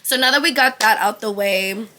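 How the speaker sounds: talking while chewing gum; words round a piece of gum. Real, not acted. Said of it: "bitch, I'm chewing gum".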